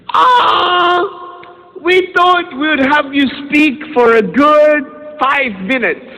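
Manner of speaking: high, slow, sweetly apologetic principal; a cheery principal letting him down gently, slowly; imitating the principal. Retelling the principal's reply, high and drawn out.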